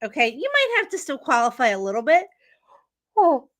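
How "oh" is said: yawning through the words. Real, not acted. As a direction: talk mid-yawn. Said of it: "I don't know why I'm yawning".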